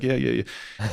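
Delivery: quiet, dismissive yeahs, just going through the motions; insincere brush-off. Retold or imitated. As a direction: toss it off like you don't mean a word. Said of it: "the most insincere hug in the world".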